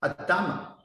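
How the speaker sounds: Adama said ah-dah-MAH, falling; pronounced Adama. Shown as a demonstration. Teacher gives the Hebrew for the dust of the ground, ah-dah-mah. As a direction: say Adama with open ahs. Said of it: "in Hebrew is".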